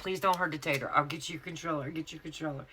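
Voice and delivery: imitating a hasty surrender; mock pleading. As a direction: plead playfully, giving in. Retelling her plea to the threatener.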